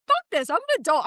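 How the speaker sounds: high-pitched retold huff; mock exasperation. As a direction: act out storming off from a quarrel. Retold storming out of argument.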